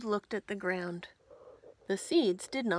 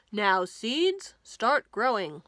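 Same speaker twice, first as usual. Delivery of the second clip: louder, calling down to the seeds; 8 dB louder than usual. Acted. Toad speaking loudly to his seeds, louder. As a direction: say it loudly to make them grow. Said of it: "said loudly".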